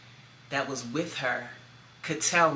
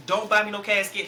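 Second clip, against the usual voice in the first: firm instruction; 4 semitones higher, 4 dB louder than usual. Retold or imitated. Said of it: "tell my kids".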